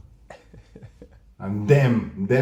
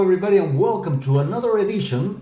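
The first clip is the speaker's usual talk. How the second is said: big bright host welcome; game show host; 5 semitones higher than usual. Acted. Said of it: "You sound like a game show host every time".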